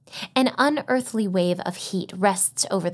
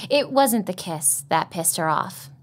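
usual speaking voice

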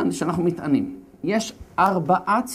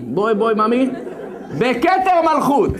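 high, loud laughing call; mock drunken summons; 6 semitones higher, 4 dB louder than usual. The king calls Vashti to the party, a mock drunken call. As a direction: call her over like a tipsy king.

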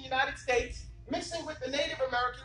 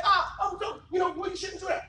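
upset objector; 5 semitones higher than usual. Retold or imitated. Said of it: "brothers get upset and ladies get upset".

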